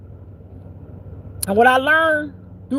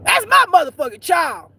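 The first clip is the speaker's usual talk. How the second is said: proud devil; 6 semitones higher than usual. Retold or imitated. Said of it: "That's what the devil say".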